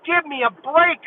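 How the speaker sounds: retold amazement. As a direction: gush like a kid seeing a new toy. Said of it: "I almost lost it then".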